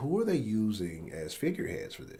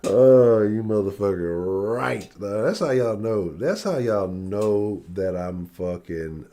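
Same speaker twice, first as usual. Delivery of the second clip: excited exclamation; 3 semitones higher, 10 dB louder, slower than usual. Real, not acted. Streamer reacting to a chat comment, loud and amused. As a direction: burst out in amused disbelief. Laughing exclamation after hearty laugh.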